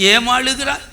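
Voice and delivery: softly voiced, caring question; tender imitation. Preacher voicing God to weeping Hannah, softly tender. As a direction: quietly imitate a gentle comforter.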